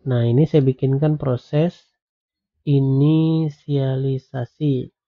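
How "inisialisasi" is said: slow dictation. Shown as a demonstration. Dictating code while typing.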